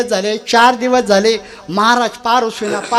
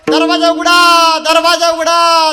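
drawn-out call, raised a little; 3 semitones higher than usual. Acted. Householder imitates maharaj calling to heaven's apsaras, calling out slowly. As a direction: call slowly, stretching each word. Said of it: "स्वर्गातल्या अप्सरांना आवाज येतात".

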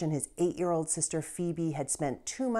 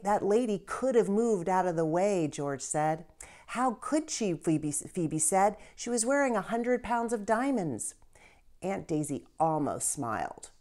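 lively read-aloud for kids, with voiced characters; story narration. A narrator's reading. Teacher reads a children's novel aloud.

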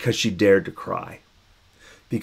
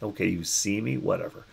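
dismissive shrug; 6 dB quieter than usual. Retold or imitated. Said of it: "you're like".

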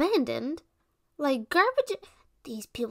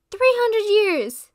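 slow, much higher and louder astonished exclamation; shocked cry; 9 semitones higher, 10 dB louder, slower than usual. Acted. Witch learning three hundred years have passed, loud astonished cry. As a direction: stretch out the disbelief.

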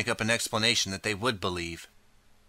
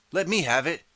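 much higher, grabbing call; high, greedy cry from the crowd; eager cry; 8 semitones higher, 3 dB louder than usual. A narrator's reading. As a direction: shout to win the bid first. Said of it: "a young woman cries".

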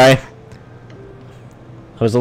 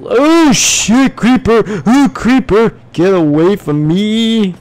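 startled panic; 6 semitones higher, 3 dB louder than usual. Real, not acted. Creeper suddenly appears.

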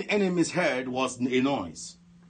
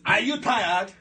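raised-pitch commanding question, demonstrated; authoritative voice; 6 semitones higher, much slower than usual. Shown as a demonstration. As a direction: show how a man of authority asks it. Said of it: "so much authority on his voice".

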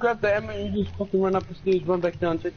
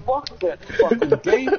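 frustrated outburst; 8 semitones higher, 5 dB louder, slower than usual. Real, not acted.

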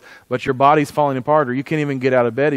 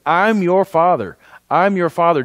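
God's voice; 4 semitones higher, 4 dB louder than usual. Acted. Voicing God provoking jealousy.

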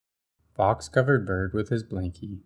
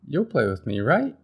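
hopeful Bird; 4 semitones higher than usual. Acted. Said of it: "said Bird".

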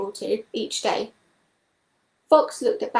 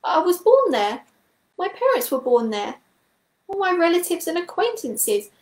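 a small creature's raised, pleading voice; higher-pitched toad in horrified disbelief; distressed Toad; 5 semitones higher than usual. Acted. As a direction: Toad clinging to hope, voice pitched up in dismay. Toad's distressed speech.

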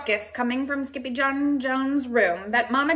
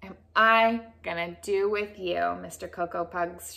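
gentle scolding; 3 semitones lower than usual. Acted. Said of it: "she scolded".

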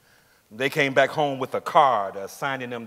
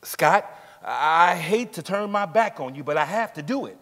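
raised, higher voice as the apologetic policeman; policeman quoting orders; 4 semitones higher, 4 dB louder than usual. Retold or imitated. Scott retelling the policeman's words to the court, raised and higher. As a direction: voice the officer who must turn away a friend, louder. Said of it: "He said".

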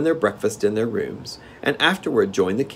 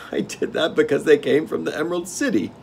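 gnome king; 8 semitones higher than usual. Acted. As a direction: relish the game like a spoiled monarch.

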